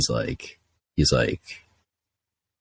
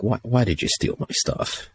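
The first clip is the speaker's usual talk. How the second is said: higher, pleading mock whine; whiny complaint; 8 semitones higher than usual. Complaining to the tow lady about his stolen pants, high mock whine. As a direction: whine it like a cheated kid, rising at the end.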